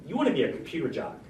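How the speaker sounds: a quick, light take on the mentor's phrasing; quoting the mentor. Retold or imitated. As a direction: toss off the mentor's words a bit fast. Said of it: "That's how she said it".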